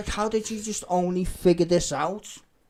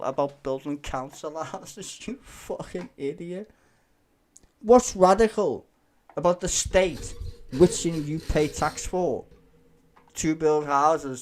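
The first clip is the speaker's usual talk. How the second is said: exasperated rant; 6 dB louder than usual. Real, not acted. Ranting at video.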